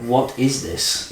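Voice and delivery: puzzled taster. Retold or imitated. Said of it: "I try it and go".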